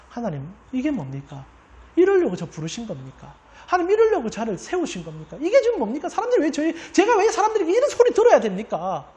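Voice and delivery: resentful protest rising into indignation; complaining to God. Retold or imitated. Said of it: "원망, 원비용, 불평을 쏟아냈다는 거예요". (낮은 원망에서 높고 큰 항의로 커지는 목소리)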